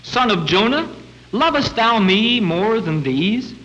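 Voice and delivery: lightly voiced Jesus, gently pleading; Jesus asking Peter. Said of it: "Jesus saith to Simon Peter".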